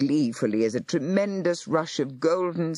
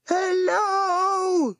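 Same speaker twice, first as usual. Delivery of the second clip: high, carrying, crying out; desperate call; 3 dB louder than usual. A narrator's reading. Boy calling desperately at the secret cave entrance. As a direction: call up to the hidden doors, urgent. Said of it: "he called desperately".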